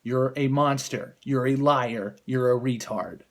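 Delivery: shrill screeching high mock rant, loud; mocking Meghan McCain. Mocking a TV pundit as a shrieking, furious harpy. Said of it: "Meghan McCain is like".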